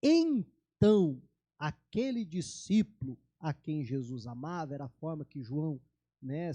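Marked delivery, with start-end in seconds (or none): none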